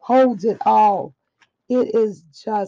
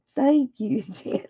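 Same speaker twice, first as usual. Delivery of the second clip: whispered thanks; 4 semitones higher than usual. Real, not acted.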